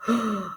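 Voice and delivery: short pretend gasp of surprise; sharp storyteller's intake of breath. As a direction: gasp in mock shock for young listeners. Reader reacts to missing caps.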